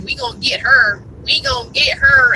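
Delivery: mock southern drawl imitating the mechanic; lazy Southern drawl, half-joking. Mocking the repair shop man in a southern drawl. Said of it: "in my southern drawl".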